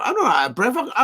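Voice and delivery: laughing it off; laughing denial. Real, not acted. Vlogger brushing off a comment about his breathing, laughing. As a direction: chuckle through the denial.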